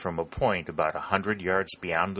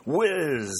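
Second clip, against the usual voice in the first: bullet whiz; 10 semitones higher, 3 dB louder than usual. A narrator's reading. Soldier imitates passing bullets overhead.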